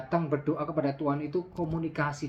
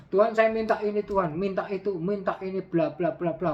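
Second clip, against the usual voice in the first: mock bossy prayer; 3 semitones higher than usual. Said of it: "merintah Tuhan terus".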